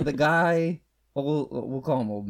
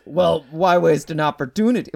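lightly mocked British accent, loud; 3 semitones higher, 8 dB louder than usual. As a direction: quote him in a raised, put-on British voice. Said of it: "But he's British".

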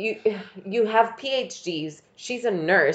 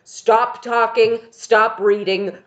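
mock urgent warning; 3 semitones higher, 5 dB louder than usual. Shown as a demonstration. Showing what Al should urgently say.

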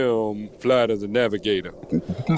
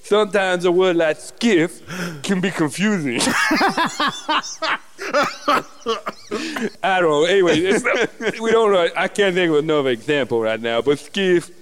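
higher lisping voice; lisping character voice; 6 semitones higher than usual. Acted. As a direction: keep the lisp going, higher. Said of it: "When you have a lisp".

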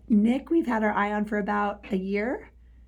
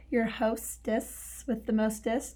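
put-on giddy party girl; 6 dB quieter, slower than usual. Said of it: "but you have party girl voice".

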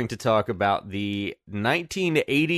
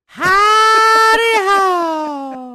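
squeaky chipmunk voice; high sped-up voice; 11 dB louder, much slower than usual. Retold or imitated. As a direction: shout it in a tiny helium squeak. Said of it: "'cause of the voice. Like, they used that high pitch".

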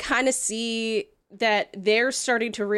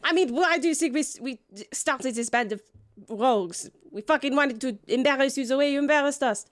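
lightly voiced scorned woman, pitched up at first; a hint of a huffy, wronged wife; indignant jilted wife; 4 semitones higher than usual. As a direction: play an aggrieved wife having it out with an ex-lover.

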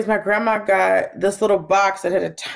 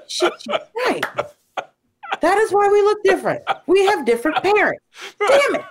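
laughing; 11 semitones higher than usual. Retold or imitated. Realizing mother's joke, laughing.

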